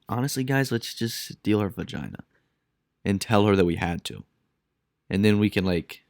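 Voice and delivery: hushed, casual conspiring among colleagues; mock scheming doctors. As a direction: quietly float a shady plan. Voices scheming doctors in operating room.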